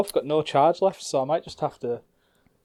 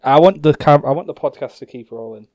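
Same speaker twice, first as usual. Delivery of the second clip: yelling across the room; 7 dB louder than usual. Real, not acted. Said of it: "I'll just shout across the room".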